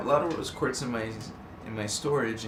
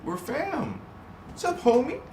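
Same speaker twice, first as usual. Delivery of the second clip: hyped greeting; 13 semitones higher than usual. Real, not acted.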